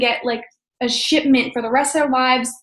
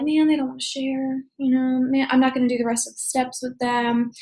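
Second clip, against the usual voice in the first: softer, deflated mock grumble; mock bummed; 4 dB quieter than usual. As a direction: play at being let down. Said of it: "get all bummed".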